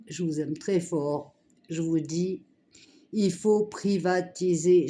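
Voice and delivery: strained voice from a sore throat; talking through swollen tonsils. Real, not acted. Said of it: "Je peux pas crier, j'ai mal à la gorge". (voix enrouée, mal à la gorge)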